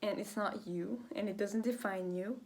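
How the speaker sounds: breathless after talking; short of breath, words trailing. Real, not acted. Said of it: "God, I'm out of breath".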